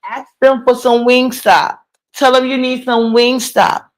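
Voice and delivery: mock her coaxing the kids, slowly; mimicking a mom urging her daughters to beg; imitating the mother. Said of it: "talking about".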